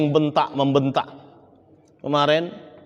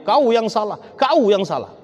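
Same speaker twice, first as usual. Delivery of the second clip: a touch of raised blaming voice, higher; mock marital quarrel; 4 semitones higher than usual. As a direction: act out a couple trading blame, lightly. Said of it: "Saling teriak-teriak begitu".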